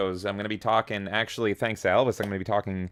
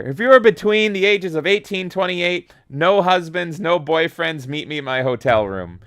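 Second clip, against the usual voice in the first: high, loud wrestler promo voice; sleazy wrestling-legend swagger, loud; Ric Flair impression; 6 semitones higher, 7 dB louder than usual. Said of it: "I can't do a Ric Flair".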